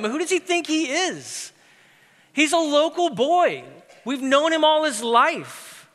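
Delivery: high, indignant mock crowd voice; scoffing disbelief. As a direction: sneer at the carpenter's son.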